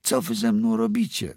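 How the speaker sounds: high, frightened call to her mother; frightened cry. A narrator's reading. Girl cries out to her mother from the oven, high and frightened. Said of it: "zawołała".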